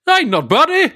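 high, loud Northeastern English accent; cartoonish Northeastern accent. Shown as a demonstration. Answering praise in cartoonish Northeastern accent. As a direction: exaggerate the Northeastern lilt.

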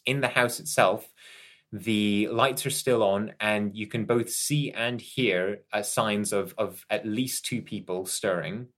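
unhurried scene-setting voice; game master narration. Acted. Game master describing a dark interior to groggy Joy, measured narration.

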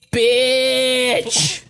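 drawn-out, high-pitched retold yell; angry yell. Blond recruit lashing out at the instructor, angry yell. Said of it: "gets pissed and yells".

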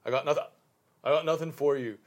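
lightly voiced backwoods country accent; a hint of the hermit's twang. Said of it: "country accents".

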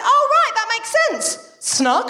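mock posh surprised doctor; imitating the doctor. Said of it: "she popped up and went".

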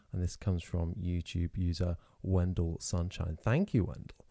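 short of breath, wheezing; wheezy voice. Real, not acted. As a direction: talk through a wheeze. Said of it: "Oh, God, I'm wheezing now".

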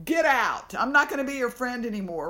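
a retold, hammed-up angry snap; mock angry outburst. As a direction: play a hammed-up offended friend. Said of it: "Nobody's gonna be like".

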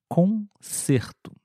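Concerto drawn out slowly, closed e; slow model word. Shown as a demonstration. Teacher models Concerto slowly for students. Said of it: "Próximo exemplo é a palavra concerto".

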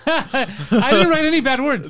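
slow words through laughter; laughing. Real, not acted. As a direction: laugh out the denial. Denying while laughing.

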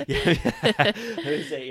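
high, slow words squeezed through laughter; real laughter while answering his co-host; laughing. Real, not acted. Laughing at the joke.

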